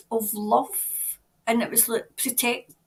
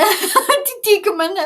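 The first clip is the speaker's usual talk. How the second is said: repeats it through a real laugh, louder and higher; 9 semitones higher, 8 dB louder than usual. Real, not acted. Laughing at herself to her live viewers. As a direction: lets the laugh spill into the words.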